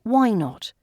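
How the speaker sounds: ordinary talk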